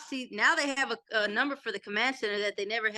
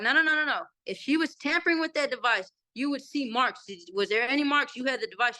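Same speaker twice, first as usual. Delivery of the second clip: retold yelling. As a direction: imitate a lawyer challenging a witness, only mildly raised. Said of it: "he yelled at her".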